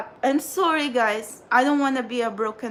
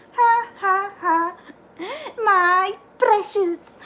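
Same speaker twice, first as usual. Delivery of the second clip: mock Gollum; 8 semitones higher, 3 dB louder, slower than usual. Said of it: "What you doing here, Golem?".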